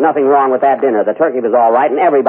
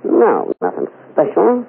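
Mae West voice; 6 semitones higher, slower than usual. Pretend. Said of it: "make believe it's Mae West".

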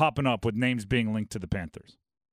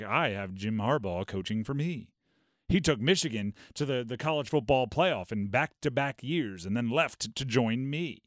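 put-on lightly posh British royal accent, a touch lower; a hint of a lordly British royal voice, mock-grand; 3 semitones lower than usual. Owner David Tepper boasting about his hired coach, in a mock royal British accent. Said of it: "gave David Tepper, like, a royal accent".

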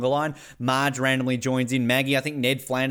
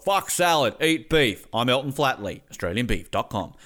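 mock beef ad; 2 semitones lower than usual. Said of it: "Just like".

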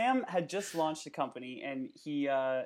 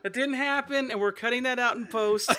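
laughing; 7 semitones higher, 7 dB louder than usual. Real, not acted. Still laughing.

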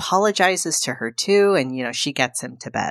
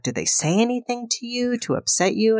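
raised, careful worried question; gentle concern; 8 semitones higher than usual. Retold or imitated. Wife to husband after the meeting, worried and careful. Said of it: "She's like".

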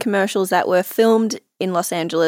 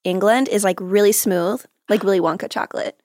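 American accent. Shown as a demonstration. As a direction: keep up a put-on American accent. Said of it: "in an American accent".

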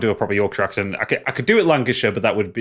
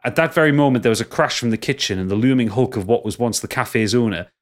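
put-on Yorkshire accent. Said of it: "Your Yorkshire accent's terrible".

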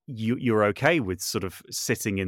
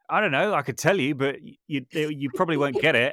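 awkward reply; 5 semitones higher, 4 dB louder than usual. Retold or imitated. Retold chat with hairdresser.

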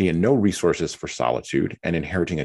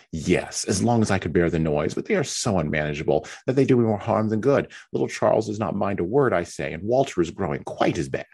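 a lightly raised, whiny invalid sister; fretful self-pitying young wife, lightly voiced; Mary's complaining voice; 4 semitones higher than usual. Mary complains to Anne about being left alone, lightly whiny.

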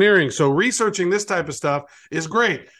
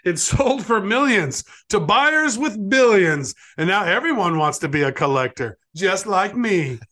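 bouncy limerick lilt. Acted. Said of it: "Write me a limerick".

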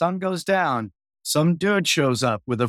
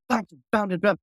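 scatting slap bass; 3 semitones higher, faster than usual. Retold or imitated. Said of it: "I'm slapping and grooving".

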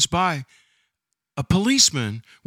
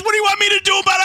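high, very fast loud yell; hammed-up irritated policeman; exasperated shout; 5 dB louder, much faster than usual. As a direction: fire it back like the annoyed cop. Cop shouting back.

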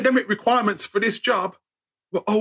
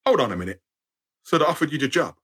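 lower, deliberate father voice; a hint of a stern, unimpressed father; stern dad; 3 semitones lower, faster than usual. Dad cutting in on his son, a hint of sternness. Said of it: "my dad goes".

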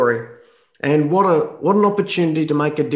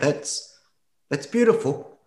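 soft, half-voiced words caught in the throat; moved almost to tears, barely getting it out; choked up; 4 dB quieter, slower than usual. Real, not acted. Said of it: "I'm tearing up just hearing that".

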